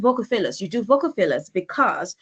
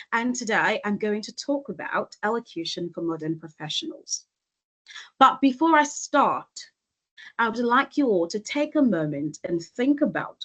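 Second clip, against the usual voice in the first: composed phrases, silence after "But before I start" in place of fillers; short deliberate pauses. Shown as a demonstration. Coach modelling a talk opening for professionals, short deliberate pauses. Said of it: "using short pauses can help you sound better".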